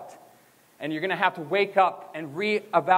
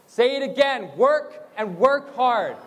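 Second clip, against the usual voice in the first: raised, higher-pitched chant lead; slow, lifted call for repetition; rallying the crowd; 4 semitones higher, slower than usual. Real, not acted. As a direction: lead the chant with growing push.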